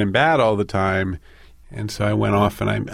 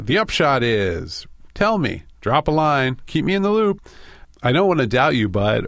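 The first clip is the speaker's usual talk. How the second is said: lightly mock-chummy, with lilting pitch; cheerful underminer; 3 semitones higher than usual. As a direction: toss off breezy stock phrases like a fake pal. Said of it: "ruthlessly cheerful underminer".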